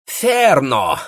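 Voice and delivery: put-on high, accented retort; German-accented agreement. A narrator's reading. The baron agreeing in a German accent. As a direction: snap it in German-accented Russian. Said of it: "сказал барон".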